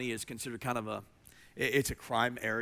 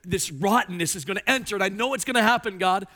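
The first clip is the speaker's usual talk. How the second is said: voicing Habakkuk; 6 semitones higher, 8 dB louder than usual. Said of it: "He, he says".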